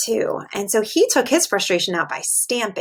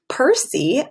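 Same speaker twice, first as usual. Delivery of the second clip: whispered name. Shown as a demonstration. Teacher whispering the name to the class. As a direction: breathe the name out.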